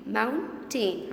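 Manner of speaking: "Mountain" broken as moun, tain; teacher separating both syllables of "Mountain"; split into syllables. Shown as a demonstration. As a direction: say "Mountain" in two distinct beats. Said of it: "How many syllables?".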